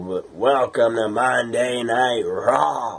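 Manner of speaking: put-on wrestling announcer voice. Retelling how the show opened: Vince McMahon voice. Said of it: "Vince used to do that".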